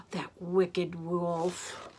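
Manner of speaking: slow, disapproving storyteller; drawn-out confiding reproach; scandalised aside. Acted. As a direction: stretch it out in mock shock.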